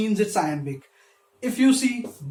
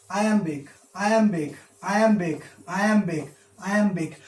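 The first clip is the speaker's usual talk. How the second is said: each "iambic" alike, with a falling tune; rhythmic counting off. Shown as a demonstration. Teacher counting feet for students, rhythmic falling "iambic" each time. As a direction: tick off every "iambic" evenly, short pause after each.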